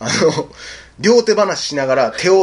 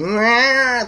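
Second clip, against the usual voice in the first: mock yowl; 9 semitones higher, much slower than usual. Acted scream as cat flees.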